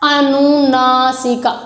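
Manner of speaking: अनुनासिका spoken slowly, syllable by syllable; slow careful term. Shown as a demonstration. Teacher to children, sounding out the term slowly. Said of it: "जैसे कि अभी देखना यहाँ पर".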